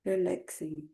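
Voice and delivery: calm unhurried meditation guidance; guided meditation. Acted. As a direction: lead them gently with long pauses. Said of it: "I will start Togai meditation".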